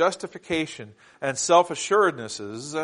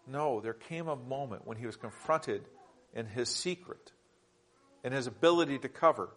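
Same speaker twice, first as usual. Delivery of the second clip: much softer, low confiding correction; intimate hush; 4 semitones lower, 8 dB quieter than usual. Acted. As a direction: draw them in with a hush. Preacher drops to intimate hush.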